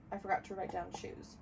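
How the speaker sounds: talking through a half yawn. Real, not acted. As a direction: let a yawn creep into it. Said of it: "That was like a half yawn".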